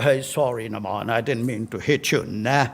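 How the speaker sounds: light imitation of a Caribbean accent, low; mumbled low apology in a put-on accent; Malcolm Marshall. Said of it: "So in his typical accent".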